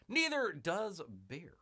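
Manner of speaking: slow, emphatic repeat of a quip; drawn-out repeat. Pretend. Host repeating a quip for effect, drawn-out.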